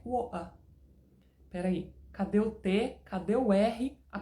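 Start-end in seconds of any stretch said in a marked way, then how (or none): 0.0-0.5 London WATER with a glottal stop for the T; London-style WATER, swallowed T; London accent. Shown as a demonstration. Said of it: "a pronúncia mais estendida lá".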